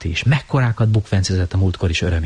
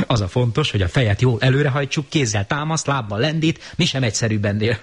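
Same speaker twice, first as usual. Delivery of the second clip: a touch of eager lecturing, higher; booming explanation; 5 semitones higher than usual. Acted. Romó eagerly explaining the tumble. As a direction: explain it with gusto. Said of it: "harsogó hangon magyarázott".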